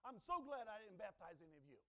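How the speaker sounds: smug relief. Retold or imitated. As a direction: sound openly relieved and a bit smug. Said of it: "with this type of mindset that you have".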